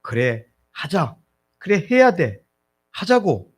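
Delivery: rally yourself, rising in pitch and volume; self-encouragement. Acted. Preacher voicing people patting themselves on the back, encouraging. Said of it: "또 다독거리면서".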